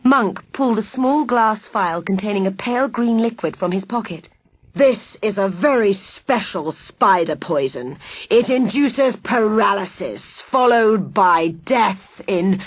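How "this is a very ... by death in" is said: slow, savouring villain voice; villain relishing his poison; menacing villain. Acted. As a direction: drip the threat out slowly.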